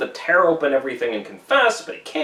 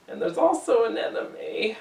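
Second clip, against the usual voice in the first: breathless secret whisper; 6 semitones higher, 6 dB quieter than usual. Acted. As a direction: confide it in a hushed whisper. Hester confesses hidden enemy.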